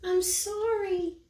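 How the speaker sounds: high, loud small-creature apology; little creature voice. Acted. The snatch-a-book apologizing to Eliza, small and high. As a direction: squeak it out like a tiny creature. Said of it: "came a little voice".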